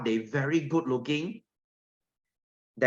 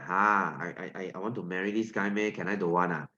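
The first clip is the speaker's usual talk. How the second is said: put-on reluctant girl; 5 semitones lower, 5 dB quieter than usual. Girl stuck marrying plain iron, reluctant and hesitant. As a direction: lower and softer, hesitant stammer. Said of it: "The girl is like".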